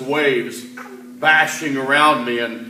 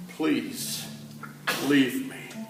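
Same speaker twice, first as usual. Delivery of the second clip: hushed, much softer begging; ashamed plea; 4 semitones lower, 9 dB quieter, slower than usual. Acted. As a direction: kneel and beg him to go away, barely audible. Peter on his knees before Jesus.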